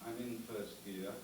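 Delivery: mock foreign driver's halting English, slow at first; lightly voiced driver on the soundtrack; imitating a racing driver. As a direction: read it like a badly dubbed race driver. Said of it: "the soundtrack went something like this".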